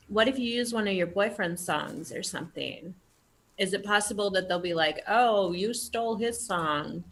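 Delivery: talking through a mouthful of cookie; mouth full. Real, not acted. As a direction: speak while chewing. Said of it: "I should stop talking with my mouth full".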